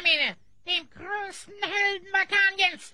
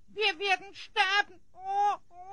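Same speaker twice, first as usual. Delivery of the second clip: whimpering. Acted. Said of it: "Hör jetzt auf zu jammern".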